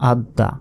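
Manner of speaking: আদ দা as ad-da, d held then released; doubled consonant. Shown as a demonstration. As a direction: sound the d twice in আদ দা. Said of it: "তাজদিদের উচ্চারণ দুইবার হয়". (আদ দা, দ দুইবার)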